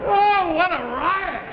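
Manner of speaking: loud, high, slow mock delight; sarcastic hilarity. Husband mocks wife's joke, loud sarcasm. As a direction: boom it out in sarcastic appreciation.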